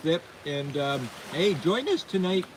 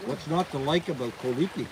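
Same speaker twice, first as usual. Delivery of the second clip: mouth full; 4 dB quieter than usual. Real, not acted. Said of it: "Sorry for me to talk with my mouth full".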